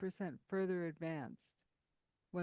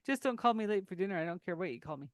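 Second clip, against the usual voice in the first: quick joking quip; faster than usual. Retold or imitated. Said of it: "I used to always say".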